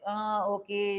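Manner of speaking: mildly reluctant, half-hearted okay; drawn-out "uh", then a reluctant okay; grudging okay. Acted. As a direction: agree only as a favor, without full heart. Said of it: "just because you, you want me, for your sake, I'll do it kind of okay".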